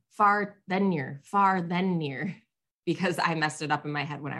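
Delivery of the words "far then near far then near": imitating a slow, punchy chant to squadmates; recited mantra. Shooter reciting the order to the squad, slow and deliberate. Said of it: "in my squad saying".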